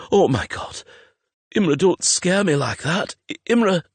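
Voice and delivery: high, overwrought scolding; shaken relief. A narrator's reading. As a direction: blurt it out, still frightened. Shaken reunion after terror.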